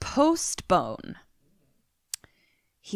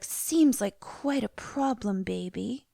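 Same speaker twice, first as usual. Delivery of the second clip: slow, put-on sympathy fading softer; affected; 5 dB quieter, slower than usual. Woman answering lover's confession, affected and slow. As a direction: imitate her affected, drawn-out concern. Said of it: "everything she says is in a very affected".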